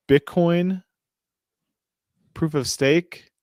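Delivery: high, questioning disbelief; incredulous. Real, not acted. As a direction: echo it back as if it's nonsense. Disbelief at article's false claim.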